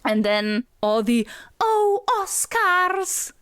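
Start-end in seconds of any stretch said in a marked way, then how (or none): 1.6-3.3 high, very slow lovestruck sigh of a name; swooning Guinevere. Retold or imitated. Imitating Guinevere swooning over her love, slow high sigh. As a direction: melt over the name like a smitten heroine. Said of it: "Guinevere says that a lot".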